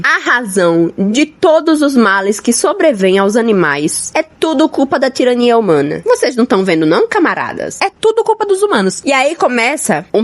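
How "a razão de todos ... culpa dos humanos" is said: lightly acted rallying speech; Major. Old pig rousing the farm animals, mildly declamatory. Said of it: "reúne todo mundo ali e fala assim".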